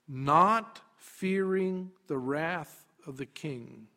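slow, spaced-out verse reading; unhurried and solemnly measured; measured scripture reading. Shown as a demonstration. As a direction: read it deliberately, pausing between phrases.

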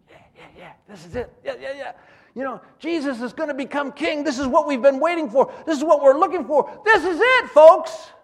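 starts hushed, builds to a loud, high cheer; disciples' excitement swelling into a shout; excited disciples. Retold or imitated. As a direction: grow from eager murmurs to a triumphant shout. Disciples cheering the king idea.

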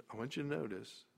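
usual speaking voice

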